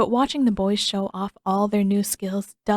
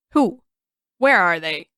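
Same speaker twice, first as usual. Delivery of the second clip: loud, startled yelp; panicked squawk; Sokka's squawk; 6 dB louder than usual. Acted. Sokka squawking in alarm at the news, loud. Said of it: "Sokka's immediate squawk".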